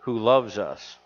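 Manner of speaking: reading the Bible aloud from the pulpit; scripture reading. Acted. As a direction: read the verse out to the congregation.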